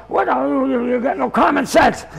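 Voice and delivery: imitating an old man's mild rant; lightly hammed-up telling-off. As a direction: scold him in mock exasperation. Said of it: "This guy is on a rant".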